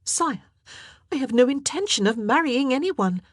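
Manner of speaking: high, cold defiance; glaring defiance. A narrator's reading. Queen glaring back at the king, high and defiant. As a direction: answer with icy firmness. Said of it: "Mary glared at him".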